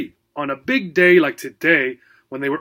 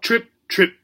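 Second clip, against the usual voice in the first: moaning; 6 semitones higher than usual. Acted. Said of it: "he moaned".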